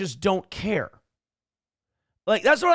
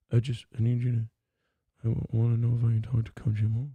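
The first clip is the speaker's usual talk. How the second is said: a light, meek imitation of the caller; mock whimper; 6 semitones lower, 4 dB quieter than usual. Imitating the timid caller asking for Coach Mo, mock whimper. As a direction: mumble it like a timid man. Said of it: "They were talking in a whimper".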